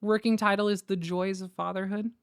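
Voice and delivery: normal talking voice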